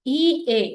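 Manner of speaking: ಇ ಎ sounded out loudly as one long E; teacher sounds out the vowel pair as E; demo vowel sound. Shown as a demonstration. Teacher shows students the vowel sound, sounding it out. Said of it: "is together pronounced as E only".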